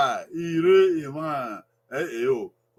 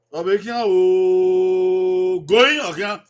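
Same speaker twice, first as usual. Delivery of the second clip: slow model phrase; 5 dB louder, much slower than usual. Shown as a demonstration. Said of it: "teacher models a phrase".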